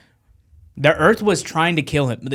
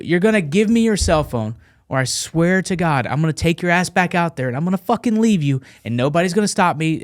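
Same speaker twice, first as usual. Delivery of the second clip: higher, insistent threat; retold threat; 4 semitones higher than usual. Marine threatening reporter for his phone, menacing insistence. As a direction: lay down a threat, stressing each clause.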